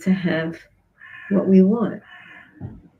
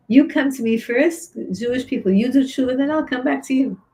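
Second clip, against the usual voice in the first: God answering; 5 semitones higher than usual. Acted.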